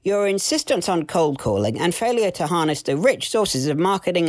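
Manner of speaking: stern boss character. Acted. Debbie firing Sam after his year-end review, lightly acted boss. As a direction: play a boss giving a formal dismissal.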